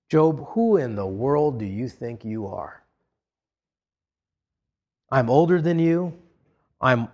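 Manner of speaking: measured, low-key put-down of a younger man; lightly voiced Eliphaz. Eliphaz scolding Job in the vernacular, understated condescension. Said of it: "let me put this in the vernacular for you".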